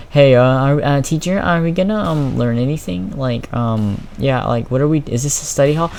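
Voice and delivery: casual, hesitant, unbothered question; retold calm. Student asking teacher whether they'll learn anything, calm. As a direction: ask the teacher mildly, stumbling over ums. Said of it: "I'm just calm".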